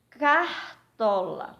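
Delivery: slow, split into CAR-TO-LA; sílaba por sílaba. Shown as a demonstration. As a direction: break "Cartola" into three drawn-out syllables. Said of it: "três sílabas". (sílaba por sílaba, devagar)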